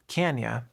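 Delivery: you reduced to ya; "can ya," run together as one word; linked can ya. Shown as a demonstration. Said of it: "can and you become".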